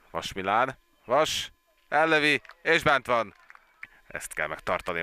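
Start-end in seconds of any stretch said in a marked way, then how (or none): 1.0-3.3 excited hungarian sports commentary. Real, not acted. Live goal commentary, goal scored.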